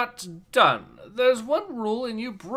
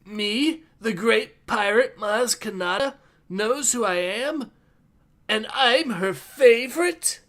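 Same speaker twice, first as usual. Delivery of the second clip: anime protagonist; 3 semitones higher than usual. Acted. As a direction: say it like a wide-eyed anime hero. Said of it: "you made that sound like a fucking anime protagonist".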